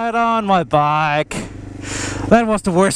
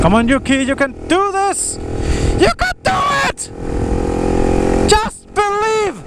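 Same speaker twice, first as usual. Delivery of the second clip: excited cheering. Pretend. Cheering on a game character.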